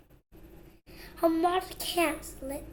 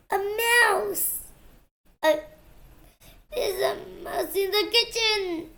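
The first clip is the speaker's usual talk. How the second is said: alarmed cry; 4 semitones higher than usual. Acted. Farmer's wife spots a mouse.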